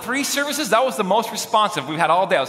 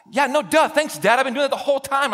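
higher-pitched mock-exasperated comeback; sarcastic kid; 5 semitones higher than usual. Kid answering his yelling dad, acted sarcasm. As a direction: answer like a fed-up Little Leaguer.

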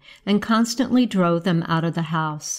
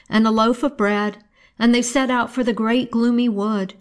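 usual speaking voice

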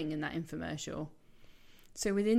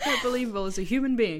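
mock harsh feedback; 4 semitones higher, 8 dB louder than usual. Quoting harsh feedback, amused.

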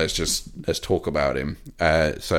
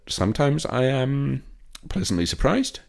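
sing-song hopeful; 8 semitones higher than usual. Acted. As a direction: draw it out brightly, hoping for the best. Hopeful Dolittle review remark.

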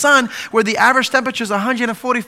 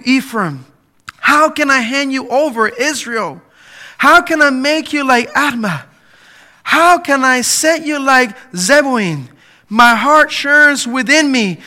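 preached scripture reading; 4 dB louder than usual. Acted. Pastor reading God's plea from Hosea, fervent and loud. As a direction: plead God's words out to the room. Reads Hosea's pleading verses.

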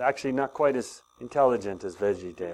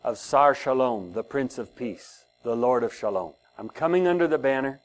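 spoken prayer. Shown as a demonstration. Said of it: "say all these things out loud".

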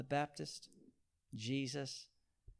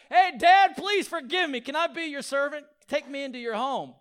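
high, loud cheeky plea to Dad; hammed-up cheeky son; mock prodigal son; 10 semitones higher, 9 dB louder than usual. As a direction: play the son asking with no change of heart. Prodigal acted bringing harlots.

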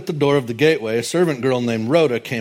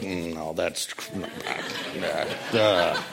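flustered doubt; 7 semitones lower, 6 dB quieter, slower than usual. Retold or imitated. Friends voiced, flustered denial.

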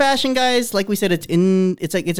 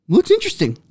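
unimpressed; 12 semitones higher than usual. Retold or imitated. Unimpressed inner reaction quote.

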